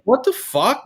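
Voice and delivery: retold indignant disbelief. Retold outrage at the stranger.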